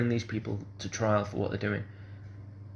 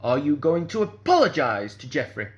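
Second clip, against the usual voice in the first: louder, imitated dictating tone; ironclad demand; 2 semitones higher, 5 dB louder than usual. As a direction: dictate the question like an order, punching APOLOGISE. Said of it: "said it in exactly that tone".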